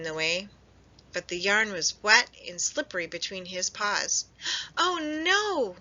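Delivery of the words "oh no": much higher, startled oh no; alarmed cry. A narrator's reading. Hedgehog sliding down yarn, alarmed cry. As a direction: gasp as you slide. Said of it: "he cried".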